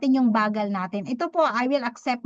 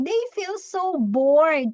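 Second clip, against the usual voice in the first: bored drawl; 4 semitones higher, much slower than usual. Acted. Describing bored listeners.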